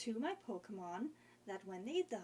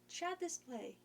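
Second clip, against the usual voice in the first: pitched up with a sudden idea; excited; 7 semitones higher than usual. Real, not acted. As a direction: blurt it out, thrilled. Excited new idea, high pitch.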